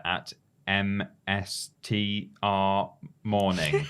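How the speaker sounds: slow robotic letter-by-letter. Real, not acted. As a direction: spell it out like a robot. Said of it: "You sounded like a robot".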